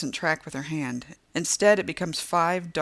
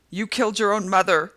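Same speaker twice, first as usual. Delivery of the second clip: high, louder torn shout; ripped ragged shout; 5 semitones higher, 8 dB louder than usual. A narrator's reading. Delivery woman shouting the accusation at the narrator. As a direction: tear your voice on it. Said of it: "she shouts in a voice both ripped and ragged".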